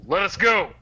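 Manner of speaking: high, loud battle cry; rally them with a shout; commanding shout. Acted. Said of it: "brandish my shield ... and say".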